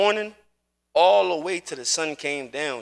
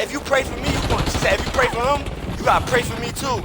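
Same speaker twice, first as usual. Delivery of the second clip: higher-pitched imitation of the grandma; grandma's plea; 5 semitones higher than usual. Grandma begging the father to pray for her too, imitated higher.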